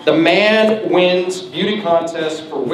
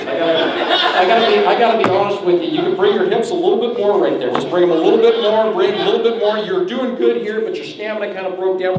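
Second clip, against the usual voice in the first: lightly voiced strict coach, a bit higher; mock coach grading; 3 semitones higher than usual. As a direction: play a fussy coach giving feedback. Mock coach grading his wife.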